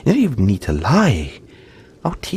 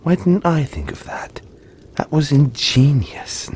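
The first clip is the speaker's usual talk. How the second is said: amazed self-quote; 6 semitones higher, 4 dB louder than usual. Retold or imitated. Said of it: "I look back and I think".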